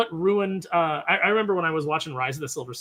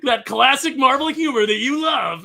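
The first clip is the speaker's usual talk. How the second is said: louder, higher mocking sneer, slowed; sarcastic; 7 semitones higher, 6 dB louder than usual. Real, not acted. Mocking Marvel's jokes to cohost, sarcastic. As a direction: drip sarcasm on classic Marvel humor.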